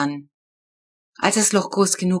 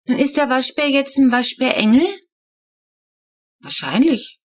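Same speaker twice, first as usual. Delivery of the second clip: put-on higher child voices, wondering; 7 semitones higher, 4 dB louder than usual. A narrator's reading. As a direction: kids whispering theories in bed. Children talking in bed.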